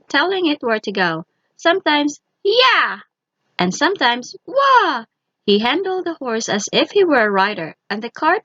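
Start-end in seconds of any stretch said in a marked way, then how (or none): 2.4-3.0 high, loud little driver's call; shout at horse. A narrator's reading. Tom steering the horse from its ear, high loud shout. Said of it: "he started to shout at the horse". 4.5-5.1 high, loud little driver's call; shout at horse. A narrator's reading. Tom steering the horse from its ear, high loud shout. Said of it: "he started to shout at the horse".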